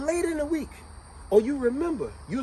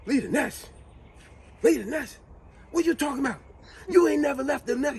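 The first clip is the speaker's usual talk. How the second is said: mocking retort; 8 semitones higher than usual. Jody mocking his mother.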